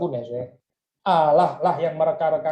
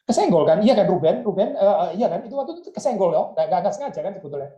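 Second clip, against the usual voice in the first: pleading self-comfort; 4 semitones higher, faster than usual. Pretend. Joseph pleading with Ruben to call it an accident. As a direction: coax Ruben into agreeing it was an accident. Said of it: "Maksudnya supaya menghibur diri".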